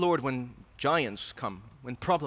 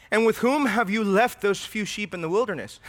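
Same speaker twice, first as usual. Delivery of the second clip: scornful brother; 5 semitones higher, 5 dB louder than usual. Acted. Preacher voices scornful older brother.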